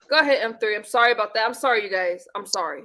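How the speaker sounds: quiet, strained calm after anger; forced politeness. Real, not acted. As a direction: swallow the anger and stay polite. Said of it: "and I'm trying to be civil".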